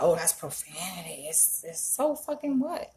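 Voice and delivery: a prissy critic, mimicked; mock the offended voice, then shrug it off; mocking the prude. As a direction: parody of a pearl-clutcher. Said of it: "You're like".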